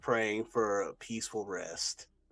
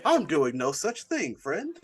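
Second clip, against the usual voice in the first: louder, slower, offended insistence; indignant denial; 8 semitones higher, 9 dB louder, slower than usual. Acted. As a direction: protest with wounded pride. Reagan denies being tired.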